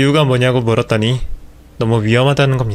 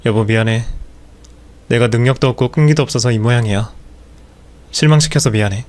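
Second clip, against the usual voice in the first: dejected apology. Acted. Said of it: "풀이 죽은 모습".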